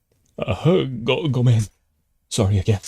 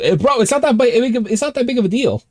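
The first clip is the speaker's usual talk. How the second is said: mock reassurance; 4 dB louder than usual. Reassuring himself about the cat.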